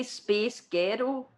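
put-on "Space Girl" slowly, in an American-style pronunciation. Shown as a demonstration. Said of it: "in an American accent".

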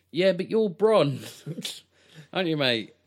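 loud, high-pitched mock protest; mock incredulous challenge. Disbelieving viewer to the actor playing against type, mock incredulous challenge. Acting out viewer's reaction to Bronn.

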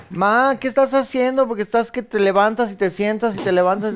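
a daughter asking mom why she keeps standing; daughter's question. Retold or imitated. Daughter quizzing mom about standing up. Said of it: "una de las ranitas".

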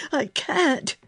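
high, strained protest; choking. A narrator's reading. Hysterical boy answers girl's order to stop, choking. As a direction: force it out through panic. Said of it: "he was choking".

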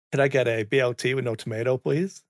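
lightly North American accent, quick drive-thru order. Shown as a demonstration. Ordering food at a drive-thru, light North American accent. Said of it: "My intonation's different because I want to be understood".

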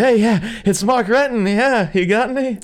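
high, loud mock voice for the phone call; squeaky high imitation of Renton on the phone; high put-on voice. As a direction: pitch way up, cheery caller. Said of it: "He's like".

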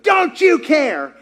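high, slow, pleading cry; half-shouted plea to God; anguished question. Retold or imitated.

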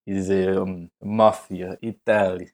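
lightly put-on Italian accent; hint of a mock Italian mobster. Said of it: "sounds weirdly like you're doing an Italian impression".

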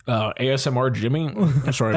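chewing a peanut mid-sentence; mouth full. Real, not acted. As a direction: talk around a mouthful. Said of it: "I'm eating a peanut".

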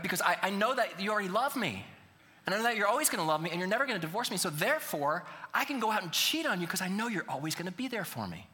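mock smug reasoning. Mocking cheater's logic.

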